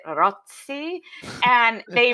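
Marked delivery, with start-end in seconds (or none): 0.1-1.0 Rozzi said slowly as ROT-see, with a ts; Italian-style pronunciation. Retold or imitated. Comedian asking about a last name, Italian-style pronunciation. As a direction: put a pizza-hand ts into Rozzi. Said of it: "really want the opportunity to pizza hand it".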